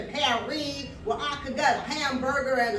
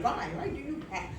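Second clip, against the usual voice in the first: put-on softer, lightly French-accented question; attempted French accent; 4 dB quieter than usual. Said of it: "I wish he could do the French".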